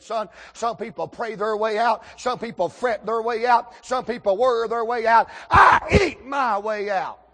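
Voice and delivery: building mock pronouncement. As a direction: preach the list, then holler the punchline. Acted speech building to punchline.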